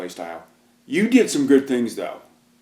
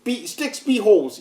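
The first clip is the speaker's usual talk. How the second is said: dopey brute voice; 14 semitones higher, much slower than usual. Retold or imitated. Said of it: "I'm like".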